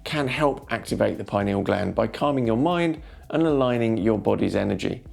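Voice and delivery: smooth, measured narration over music; soothing documentary-style voiceover; wellness voiceover. Acted. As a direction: read it like a calm inspirational video script.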